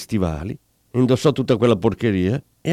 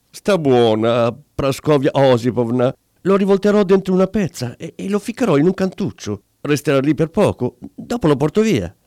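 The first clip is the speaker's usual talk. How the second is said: placating husband; 3 semitones higher than usual. Acted. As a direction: hush her gently but nervously. Husband soothing his angry wife. (marito che cerca di calmare la moglie)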